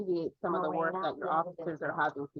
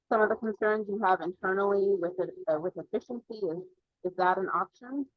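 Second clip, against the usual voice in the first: muffled, unclear speech. Real, not acted. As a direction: talk as if muffled. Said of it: "It's a little bit muffled".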